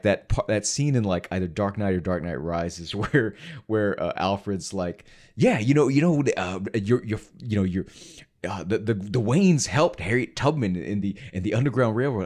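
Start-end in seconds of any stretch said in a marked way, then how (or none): 5.4-12.3 lightly voiced film butler, halting and stumbling; stammering, half-hearted character quote; half-attempted Michael Caine. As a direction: quote the butler with only a hint of impression. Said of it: "you were trying, and I felt like you wanted to do a Michael Caine".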